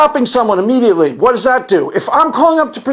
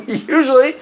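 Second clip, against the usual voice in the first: laughing repeat; 3 semitones higher than usual. Real, not acted. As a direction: laugh the word Usually out.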